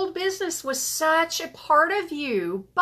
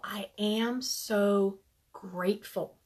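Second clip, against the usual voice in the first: slowed right down and hushed, like a mantra; slow soft mantra; 6 semitones lower, 9 dB quieter, slower than usual. Shown as a demonstration. Leading the group in a hushed gratitude mantra. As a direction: let it sink in, softly and slowly. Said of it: "we like to say it three times".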